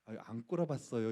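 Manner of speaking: gently, meekly deny it; a mild, humble no to the senior; soft polite denial. Shown as a demonstration. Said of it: "부드럽게 얘기할 수도 있잖아요". (부드럽고 공손한 부정)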